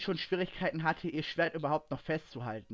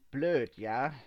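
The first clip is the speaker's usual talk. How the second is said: understated menacing growl. A narrator's reading. Kit stung by Ray's insult, growling. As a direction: throw it back with a touch of threat. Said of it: "knurrte er auf".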